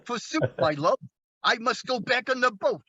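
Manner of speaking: mock-romantic Brooklyn gangster; Brooklyn gangster Shakespearean. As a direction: declaim love like a Brooklyn tough going Shakespearean. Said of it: "American gangsters tried to go Shakespearean".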